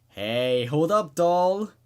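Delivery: loud, rising call to stop her; cocky yell of hey hold up doll. Acted. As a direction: shout to stop her pulling away. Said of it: "he yelled".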